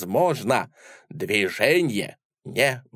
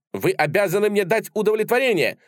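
indignant demand; 9 semitones higher, 3 dB louder, faster than usual. Acted. Demanding satisfaction in a duel.

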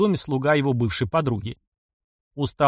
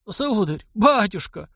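a higher, grateful gasp; gasping old man; 7 semitones higher, slower than usual. A narrator's reading. Old servant offered a home gasps his thanks. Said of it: "ахнул старик".

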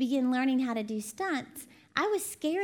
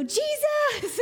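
high loud cry of "Jesus!" from the bleachers; yelling "Jesus!" in alarm; mom's scared shout; 13 semitones higher, 5 dB louder than usual. Retold or imitated. Mom in the stands shouting as daughter falls. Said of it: "my mom in the stands go".

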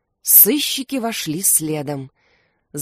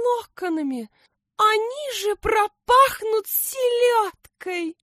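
haughty princess. A narrator's reading. Vain princess scorning the king's plan, high haughty voice. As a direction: sniff at the idea like a vain beauty. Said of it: "громко фыркнула".

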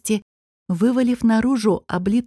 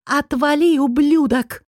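furious; 6 semitones higher than usual. Acted. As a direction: hurl the insult as you break free. Struggling out of his arms.

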